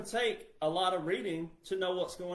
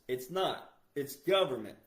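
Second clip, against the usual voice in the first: ordinary talk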